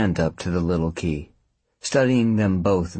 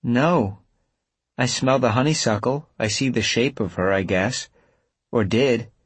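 a hint of a higher woman's voice; lightly voiced Avery, hesitant; 5 semitones higher than usual. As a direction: voice Avery a little higher, unsure.

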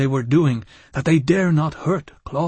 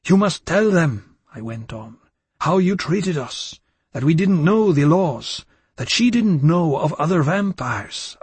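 higher, hollow robotic delivery; mechanical voice; 4 semitones higher, 4 dB louder than usual. Acted. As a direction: say it like a machine. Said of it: "that mechanical voice came out of me".

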